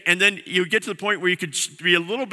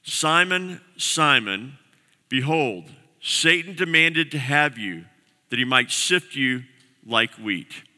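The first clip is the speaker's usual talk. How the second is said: scripture reading; 2 semitones lower, slower than usual. Acted. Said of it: "verse thirty-one".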